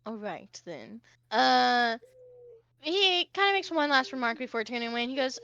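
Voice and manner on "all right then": low, soft, grudging growl; mild growl. Acted. Prince giving in to the other, low understated growl. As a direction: let it drop low with a hint of a growl. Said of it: "the prince kinda growls for a second".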